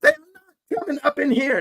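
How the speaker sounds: high, loud, emphatic imitation of dad; dad's emphatic refusal. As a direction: lay down the law, word by word. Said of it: "My dad said exact words".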